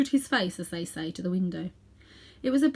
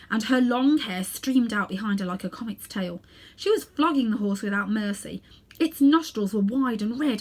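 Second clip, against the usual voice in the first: louder, driving storytelling; dramatic narration; 2 semitones higher, 3 dB louder than usual. A narrator's reading. Narrator telling the witch's wild arrival, dramatically. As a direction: paint the wild arrival with energy.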